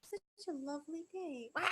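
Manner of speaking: sweet high lilt snapping into a wild yell; sudden outburst. Shown as a demonstration. Showing the wrong way to get angry, all at once. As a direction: go from calm to explosion with no warm-up. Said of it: "You don't just go".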